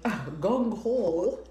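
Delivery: laughing whisper, checking the word; whispered gung-ho?; whispered question. Real, not acted. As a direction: breathe it out as an amused question.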